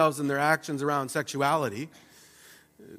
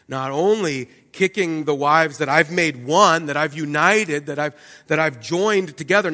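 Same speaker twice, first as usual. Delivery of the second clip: rising indignation; 4 semitones higher, 6 dB louder than usual. Acted. God's indignation builds, loud.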